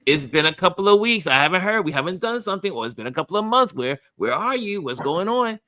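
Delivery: mock scolding, pitch up and pushy; Linda pidiendo vernos. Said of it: "she'll say".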